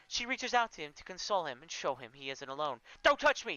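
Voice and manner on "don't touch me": high, loud recoiling shout; yelling. Acted. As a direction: shove her off with your voice. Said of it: "he yells".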